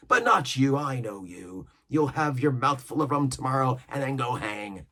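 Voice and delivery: lively pirate voice, scornful; pirate cook scolding. Acted. Cook berating impatient shipmates, scornful pirate voice. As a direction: scold them like an old sea cook.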